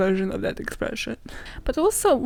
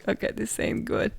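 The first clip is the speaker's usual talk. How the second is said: whispered aside; 6 dB quieter than usual. Retold or imitated. Retold reaction to pigeon crash.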